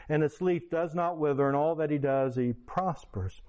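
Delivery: measured, solemn reading of a psalm; scripture reading. Acted. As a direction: read the verse aloud like Scripture. Reads Psalm one aloud.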